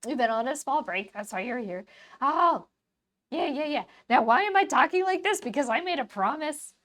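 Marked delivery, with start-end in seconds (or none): 2.2-6.7 higher silly voice, a bit louder. Acted. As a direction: keep the goofy squeaky voice going. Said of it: "do it in a silly voice".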